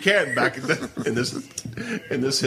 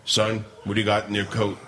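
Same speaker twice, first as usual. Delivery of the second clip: stern mall guard; 5 semitones lower than usual. Retold or imitated. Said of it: "like from Bart Simpson".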